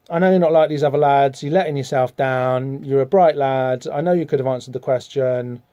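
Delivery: reach out to a wayward pupil, unhurried; teacher reaching out. Acted. Teacher calls Dane back for a word, mild earnest appeal. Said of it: "the teacher kind of reaches out to him".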